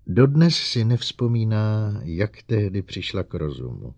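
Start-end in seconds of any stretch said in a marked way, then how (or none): none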